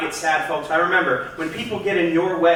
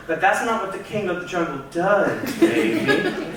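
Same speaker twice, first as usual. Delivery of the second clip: cocky swagger. Acted. Cocky king of the jungle brag.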